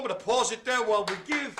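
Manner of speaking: loud, high, excited announcement; rousing host cheer. Real, not acted. Host calling applause for the lemur dancer, rousing cheer. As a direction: whip the room up into applause.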